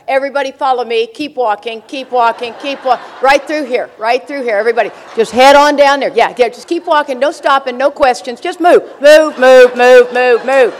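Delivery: a brisk usher that builds to loud commands of move; crowd herder. Retold or imitated. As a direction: herd the crowd along, pushing harder until you're calling out. Herding a receiving line along.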